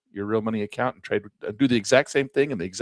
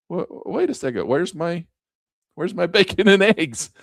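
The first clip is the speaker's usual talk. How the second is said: high, baffled complaint; hammed-up indignant question, breaking into a laugh; mock protest; 7 semitones higher, 4 dB louder than usual. Husband asking wife after she walked away, mock protest.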